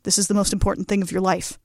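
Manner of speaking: mock life-or-death seriousness; grave director. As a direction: turn gravely intense, as if imitating a demanding director. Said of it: "morph into a Doctor Jekyll and Mister Hyde".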